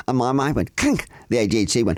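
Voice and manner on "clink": high, sudden clink noise; imitated clink. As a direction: make a bright switch-on clink sound. Imitating the mind switching on.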